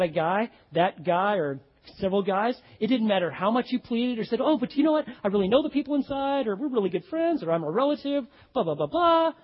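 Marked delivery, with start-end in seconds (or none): 4.4-9.3 higher, eager wheedling; mock pleading guests. Guests pleading with the door guard, mock wheedling. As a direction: beg your way past the doorman.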